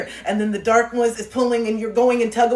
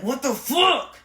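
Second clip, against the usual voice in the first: mildly acted exasperation, pitched up; frustrated outburst; 5 semitones higher, much slower than usual. Coach voicing the listener fed up with themselves, frustrated outburst. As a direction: play someone fed up with themselves. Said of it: "getting more and more frustrated with yourself".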